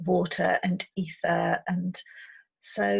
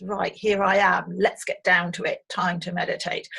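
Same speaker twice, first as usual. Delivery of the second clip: louder, businesslike get-down-to-it voice; brisk, no-nonsense; 4 dB louder than usual. Pretend. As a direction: mimic someone plonking straight into meditating, louder. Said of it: "we're not physically, as I say, just".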